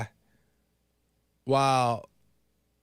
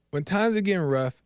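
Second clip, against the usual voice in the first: usual speaking voice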